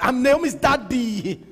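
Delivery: a hint of a Nigerian accent, Naomi's daddy. Shown as a demonstration. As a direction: repeat it in a light Nigerian accent. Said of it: "My Nigerian accent".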